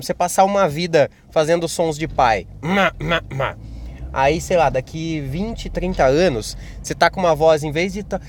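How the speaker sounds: normal talking voice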